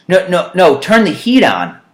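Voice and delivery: loud retold no no no; mock protest. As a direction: bark it back like the argument. Retelling a heat argument.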